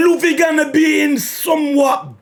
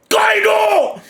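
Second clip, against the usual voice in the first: excited shouting; 4 semitones higher than usual. Real, not acted. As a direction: yell the news at the page. Shouting at the final panel.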